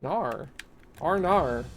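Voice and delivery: imitated Aussie "oh no"; mock Australian accent, vowels bent into r. Streamer repeating an Australian pal's oh no, mock Australian accent. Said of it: "I just heard him say R nar".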